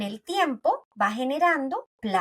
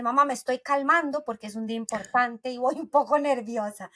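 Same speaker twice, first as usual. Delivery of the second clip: fond laughing quote. Retold or imitated. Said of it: "Y me dice".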